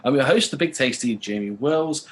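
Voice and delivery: slow, drawn-out show-opening announcer read; announcer welcome. Acted. Host welcoming listeners to the podcast, slow announcer voice. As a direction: roll out the show's name like a host kicking things off.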